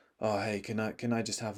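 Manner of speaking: very quiet, barely audible mumble, trying to sound cool. Speaker retells ordering in a cafe when younger, imitating being really quiet. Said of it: "I was trying to be really quiet".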